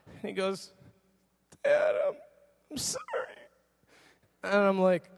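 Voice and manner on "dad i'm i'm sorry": put-on whispery, halting child's apology; pleading little boy. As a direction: imitate a sheepish son begging forgiveness. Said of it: "the cat eyes from Shrek look".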